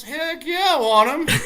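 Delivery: very high, loud mock-excited yelp; eager acceptance. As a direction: imitate the caddy jumping at the offer. Acting caddy eagerly accepting free passes.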